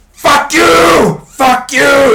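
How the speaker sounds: high, loud cracking-point yell; shy kid finally erupting; acted outburst shout. Shy kid exploding at bullies.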